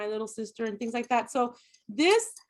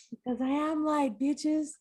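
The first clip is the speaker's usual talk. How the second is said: put-on sassy Valley Girl flourish; 4 semitones higher than usual. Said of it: "That's just a Valley Girl phrase".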